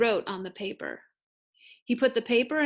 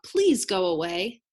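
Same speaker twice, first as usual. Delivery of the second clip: pleading cry; 5 dB louder than usual. A narrator's reading. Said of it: "cried Frog".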